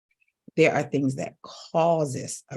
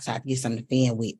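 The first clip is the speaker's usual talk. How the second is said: ordinary delivery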